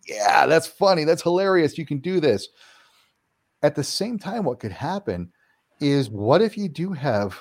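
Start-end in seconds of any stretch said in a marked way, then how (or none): 0.1-2.5 higher, lightly scoffing at the fear; mock amused. Homeowner daring the entity: light, mock amusement. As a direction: shrug off the haunting, half laughing. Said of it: "Just ride that fear and go".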